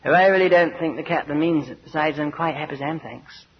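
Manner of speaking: lightly voiced dismissive passenger; a hint of a self-satisfied fellow traveller; complacent passenger. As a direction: politely brush off the warning, tailing away on the thanks. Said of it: "Turns to you and says".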